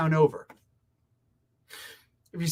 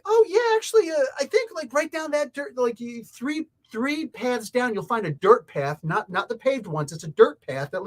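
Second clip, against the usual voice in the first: mock local giving directions; 5 semitones higher than usual.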